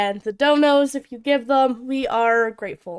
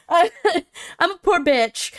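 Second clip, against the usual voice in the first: laughing; 5 semitones higher, much slower than usual. Real, not acted. Laughing self-deprecation.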